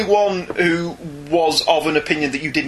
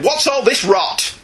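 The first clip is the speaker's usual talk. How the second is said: mock shout; 6 semitones higher, slower than usual. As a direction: belt the email subject like a song. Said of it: "I do like imaginative subject headings".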